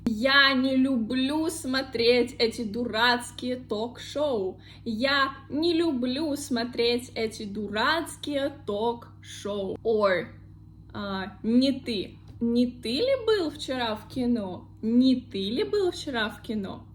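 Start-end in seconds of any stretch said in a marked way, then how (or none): 0.1-9.8 не люблю joined as ni-lyu-BLYU within a carefully modelled sentence; model sentence for repetition. Shown as a demonstration. Teacher asking learners to repeat, не люблю joined as one word. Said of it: "Repeat with me". 12.4-16.9 не ты as one word, ni-TY, opening the question; joined не ты. Shown as a demonstration. Teacher giving an example question, не ты joined as ni-TY. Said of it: "I say не ты ли был".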